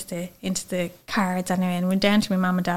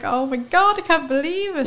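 retold disbelief; 7 semitones higher than usual. Reading positive pregnancy result.

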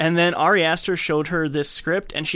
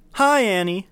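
mock group chant in unison; group chorus greeting; 6 semitones higher, 6 dB louder than usual. Retelling the group greeting Annie in unison. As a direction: drone it like a support-group crowd.

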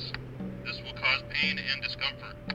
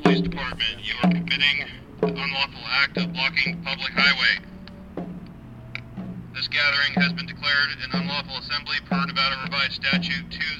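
blasting sound cannon. Real, not acted. Police dispersal order over loudspeaker.

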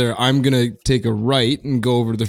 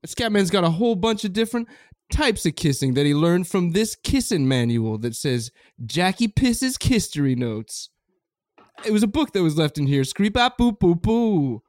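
hip cat voice; 6 semitones higher, 3 dB quieter than usual. Acted. Scatman character voice.

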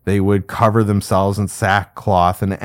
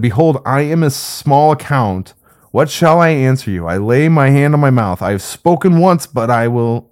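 scripture reading; 3 semitones higher than usual. Acted. Teacher reading Job's reply to God, raised scripture reading. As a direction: read Job's answer aloud to the class.

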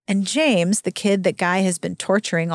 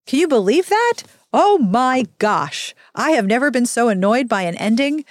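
exasperated disbelief; 3 semitones higher, 3 dB louder than usual. Real, not acted. Reacts to the book ending.

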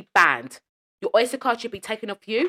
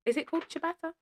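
high, unsure question; called pitched up in disbelief; surprised question; 9 semitones higher, 7 dB quieter than usual. Real, not acted. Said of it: "questioning the word".

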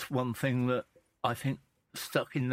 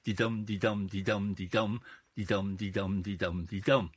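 de-dum, de-dum with the stress on dum each time; iambic rhythm; 4 semitones lower than usual. Shown as a demonstration. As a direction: tap out the beat, weak then strong. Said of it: "the iambic pentameter".

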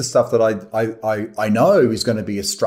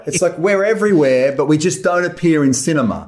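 aggrieved, pitched higher; real grievance, voice riding high; upset; 4 semitones higher than usual. Real, not acted. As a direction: complain with raised pitch. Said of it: "it sounds like you're upset".

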